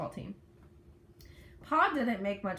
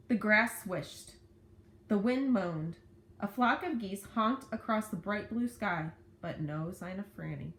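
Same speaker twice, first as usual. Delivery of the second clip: story narration. A narrator's reading. Reads a story aloud.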